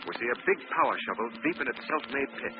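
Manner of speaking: put-on measured old-time radio intro read; radio announcer. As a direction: present the show with gravity.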